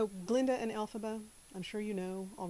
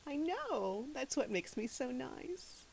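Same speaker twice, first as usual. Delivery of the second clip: Southern Glinda; 4 semitones higher, 6 dB quieter, slower than usual. Acted. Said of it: "I do put a little Southern accent on her".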